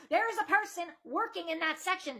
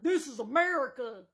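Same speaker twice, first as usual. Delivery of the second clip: lightly voiced cartoon dad outrage, lower; a hint of an indignant cartoon father; Randy from South Park; 5 semitones lower than usual. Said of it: "She sounded like Randy from South Park".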